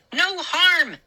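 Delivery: high indignant shriek. A narrator's reading. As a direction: throw the words back at them. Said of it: "Mindy shrieked".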